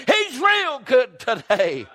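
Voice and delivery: slow refrain. Acted.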